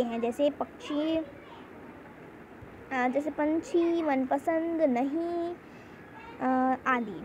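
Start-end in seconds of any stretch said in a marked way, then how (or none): 3.3-5.5 पंछी, मनपसंद, नहीं said slowly with the n sounded through the nose; nasal anusvara pronunciation. Shown as a demonstration. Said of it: "इन शब्दों का उच्चारण नाक". (पंछी, मनपसंद, नहीं का धीमा, नाक से अनुस्वार उच्चारण)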